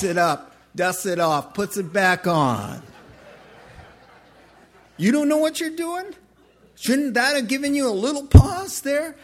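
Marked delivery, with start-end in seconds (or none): 5.0-9.2 incredulous outcry. Real, not acted. Incredulous challenge to soldiers.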